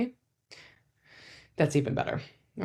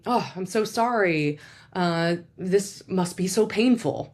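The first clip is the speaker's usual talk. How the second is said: sympathetic validation; 3 semitones higher, slower than usual. Shown as a demonstration.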